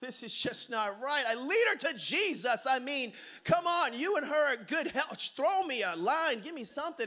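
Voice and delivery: hammed-up Hail Mary prayer; desperate prayer. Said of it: "throwing up, like, a Hail Mary".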